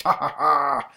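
loud, hammed-up evil cackle; gloating monster laughter; theatrical triumphant ha ha ha; mad villain laugh. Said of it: "the mad laughter of his bizarre foe".

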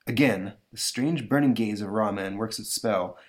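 plain reading voice

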